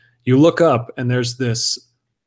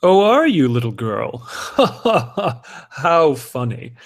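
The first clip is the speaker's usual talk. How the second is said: mocking condescension; 3 semitones higher, slower than usual. Haughty man mocks little girl.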